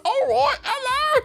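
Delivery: very high, loud British squeak; overdone Amy. Shown as a demonstration. Host getting too deep into game character, squeaky British. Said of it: "if I get a little bit too deep".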